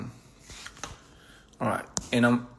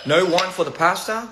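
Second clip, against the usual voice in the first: quoting a comment; 5 semitones higher than usual. Retold or imitated. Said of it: "Somebody said in the comments".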